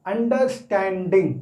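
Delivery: "अंडरस्टैंडिंग" said slowly, broken into its syllables. Shown as a demonstration. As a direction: break "अंडरस्टैंडिंग" into slow, separate syllables. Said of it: "अलग-अलग तोड़कर". ("अंडरस्टैंडिंग" को अलग-अलग तोड़कर, धीरे बोलें)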